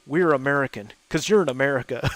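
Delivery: Talladega Nights quote. Retold or imitated. Quoting a movie line to friends, lightly voiced. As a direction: quote we're American with light bravado. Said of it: "That was a line from Talladega Nights".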